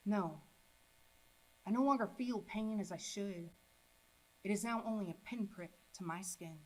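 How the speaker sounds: measured recitation falling away after the climax; subdued poem ending. Acted. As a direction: close the poem with restraint and pauses.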